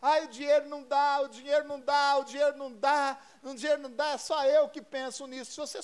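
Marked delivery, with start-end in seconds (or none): 0.0-4.1 insistent, repetitive grumble, a little louder; complaining husband. Acted. Husband grumbling at home about money, complaining. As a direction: harp on it like a griping husband. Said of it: "O marido reclamando".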